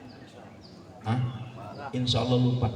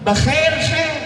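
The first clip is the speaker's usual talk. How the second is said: higher shouted Arab-style greeting; Arab greeting impression; 11 semitones higher, slower than usual. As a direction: call out like an Arab greeting friends. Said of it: "orang Arab gitu ketemu". (menirukan salam orang Arab)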